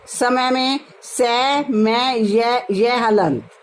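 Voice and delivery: सै, मैं, य, य हलंत spelled out slowly, syllable by syllable; slow syllable spelling. Shown as a demonstration. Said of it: "इनका उच्चारण".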